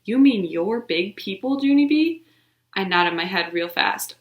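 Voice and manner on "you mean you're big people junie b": amazed question. Acted. Jose amazed.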